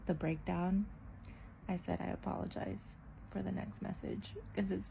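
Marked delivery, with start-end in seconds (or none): 2.0-4.3 hushed apology. Retold or imitated. Quoting her own apology text.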